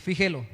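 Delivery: "fíjelo" as fi-JE-lo; plain stress on the middle syllable of "fíjelo"; penultimate stress. Shown as a demonstration. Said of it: "porque es grave".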